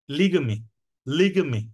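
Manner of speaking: লিগমি with the weight on lig and a light, unstressed mi; no stress on mi. Shown as a demonstration. Teacher showing students where লিগমি is stressed, light final mi. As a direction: lean on lig in লিগমি and let mi fall away. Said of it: "মিটার উপরে বেশি জোর দেওয়া হচ্ছে না".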